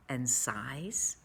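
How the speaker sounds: breathy whispered ending. A narrator's reading. Narrator whispers to the listening children. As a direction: drop to a whisper. Hushed end of phrase.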